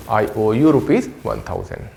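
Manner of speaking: I owe you rupees one thousand, very slowly; slow demo. Shown as a demonstration. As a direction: spell the sentence out for students. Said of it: "रुपीज वन थाउजेंड". (बहुत धीमा उच्चारण)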